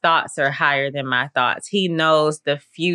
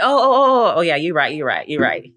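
sudden realization; 3 dB louder than usual. Retold or imitated. Herself answering God's calm reply, surprised realization. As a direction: catch yourself, then agree.

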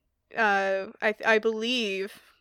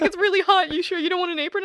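higher, louder mock barista pressing; insistent barista; 8 semitones higher, 5 dB louder, faster than usual. Stressed barista urges the customer to take an apron, insistent. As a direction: push the offer again, fussing.

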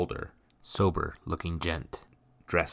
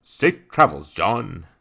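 called farewell; 3 semitones higher, 10 dB louder, slower than usual. A narrator's reading. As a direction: call out goodbye across the yard.

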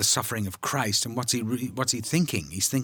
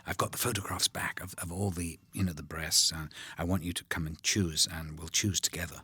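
imitating Stanley in a low whisper; hushed confiding; 4 semitones lower, 5 dB quieter than usual. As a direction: lean in and whisper it like a secret. Stanley quietly confides in Malcolm.

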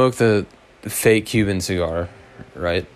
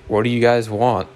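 lightly attempted Jamaican accent. Jamaican beach hustler to young tourists, faint Jamaican accent. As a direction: try a half-hearted Jamaican accent. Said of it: "In that accent".

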